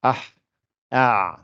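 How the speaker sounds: throat sound demo. Shown as a demonstration. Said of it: "et le ha".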